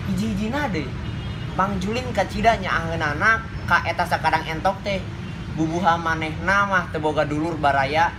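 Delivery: teacher's model fairy-tale narration; expressive story reading. Shown as a demonstration. Teacher shows pupils how to read a folktale, expressive narration. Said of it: "Bapak bade nyontohan heula".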